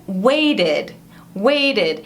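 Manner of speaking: "waited" slow and clear, ending in an extra id syllable; "waited" stretched out so its final -ed is heard as id. Shown as a demonstration. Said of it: "som de id no final". ("waited" com som de id no final)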